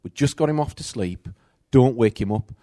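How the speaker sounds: put-on fast, loud mum warning the kids; mother warning her daughter not to wake the baby, loud and quick; mum's warning. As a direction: rattle it off as a busy mum. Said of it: "I used to say".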